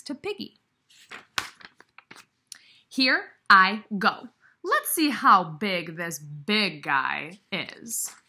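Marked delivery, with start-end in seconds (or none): 2.9-8.1 slow, loud, determined elephant voice; march off bravely to face the big guy; brave Gerald. Acted.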